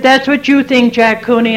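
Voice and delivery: wife defies her husband at the meeting door; defiant retort. Retold or imitated. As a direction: shut down his excuse with grit.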